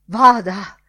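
sudden loud, commanding send-off; loud dismissal. A narrator's reading. Director sending Bloom off with a sweeping gesture, loud and commanding. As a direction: burst out with a booming order to go.

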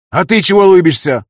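high, loud snap at the grinning driver; angry snap. A narrator's reading. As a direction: bark it at him. Councillor snaps at driver.

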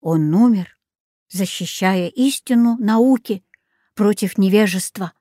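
understated, solemn pronouncement. A narrator's reading. Jaco honours the dead Bruno, mildly solemn. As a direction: state it as a modest tribute. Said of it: "торжественно сказал Жако".

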